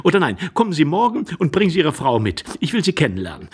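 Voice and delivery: lively lady. Acted. Lady inviting him back with his wife, lively and quick. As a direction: rattle off the new idea eagerly.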